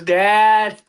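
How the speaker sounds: put-on drawn-out childlike call for dad; hint of a needy man-child; Will Ferrell in Elf. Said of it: "That reminded me of Will Ferrell in Elf".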